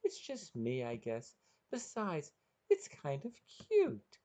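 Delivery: put-on high-pitched girlish character voice; Sherry. A narrator's reading. Sherry answering Jeff about her pet, high girlish coaxing. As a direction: answer high and coaxing, stretching the last words. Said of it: "Brian could hear Sherry's response".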